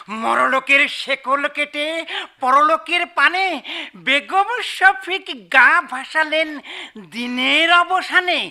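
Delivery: husband reading the elegy aloud; reading a poem. Acted. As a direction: recite each line with a steady rhythm. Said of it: "আমি পড়ছি".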